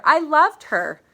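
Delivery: high, very loud, breaking into a wail; anguished cry. Acted. Father repeating it over his dead daughter, a high anguished cry. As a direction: let the grief burst out.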